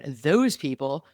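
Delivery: THOSE leaned on like a quoted label; air-quoted. Real, not acted. Defending rednecks against a dismissive label, air-quoted "those people". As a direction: put "those people" in audible quote marks. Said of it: "air quote".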